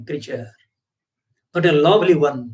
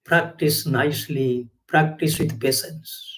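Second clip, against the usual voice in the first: slow and soft, kindly teacher; master's patient smiling advice, softly; gentle master; 4 semitones lower, 5 dB quieter than usual. Retold or imitated. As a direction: reassure the pupil gently. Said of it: "Master will smile at you and say".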